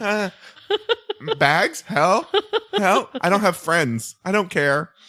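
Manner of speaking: uncomfortable, awkward, hesitant, fumbling delivery. Retelling a contestant's reply about carrying bags: imitating an awkward reply. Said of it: "in the most awkward way of like".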